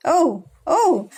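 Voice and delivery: laughing at herself; real laughter. Real, not acted. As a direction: laugh off the froggy thunder. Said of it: "Auntie sound like a frog".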